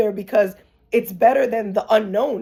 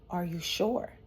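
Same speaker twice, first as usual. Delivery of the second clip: retold whisper; 10 dB quieter than usual. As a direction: quietly ask it, like an inner voice. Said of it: "and she whispered".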